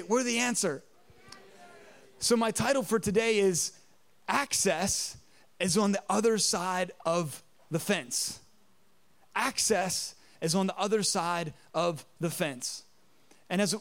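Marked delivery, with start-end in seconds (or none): 0.0-0.8 congregation repeat. Shown as a demonstration. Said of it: "Look at your neighbor and say". 5.6-12.8 slow, weighty title proclamation; sermon title. Acted.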